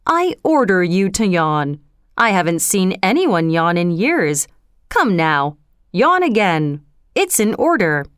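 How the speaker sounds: regal, firm and measured; lightly voiced king. King's commanding voice.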